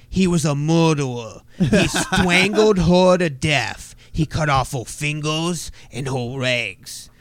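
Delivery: put-on slow childish telling, a touch of little kid; lightly voiced small child describing the crime; slow, kid-like detective voice; four-year-old detective. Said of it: "he was like".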